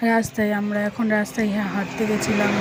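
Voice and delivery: talking around a toothbrush; words slurred by brushing; while brushing teeth. Real, not acted. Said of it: "brush করতে করতে".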